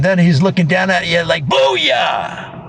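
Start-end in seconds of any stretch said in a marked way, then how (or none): 1.5-2.6 triumphant mock shout; gloating shout. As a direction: crow over the victim. Salesman gloats after body check.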